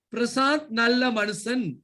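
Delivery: "நல்ல மனுஷன்" stretched slowly, falling at the end; drawn-out delivery. Shown as a demonstration. Teacher proving only delivery changes, slow drawn-out "நல்ல". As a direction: draw out "நல்ல" at half pace. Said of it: "ஒரு சொல்லையாவது மாற்றினேனா".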